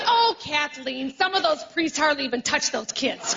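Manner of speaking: lightly voiced mom. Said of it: "she goes".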